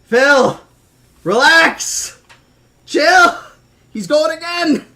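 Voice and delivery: loud, high-pitched disbelief; excited shouting. Real, not acted. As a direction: cry out to stop an over-generous friend. Reacting to another surprise gift.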